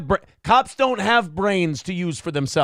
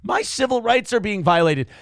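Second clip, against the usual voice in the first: mocking the ranting guy; 5 semitones higher than usual. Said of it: "And the guy's like".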